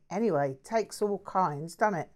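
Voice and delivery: lightly voiced breezy Cockney mate. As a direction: toss it off like a cheerful London bloke. Jack's casual remark.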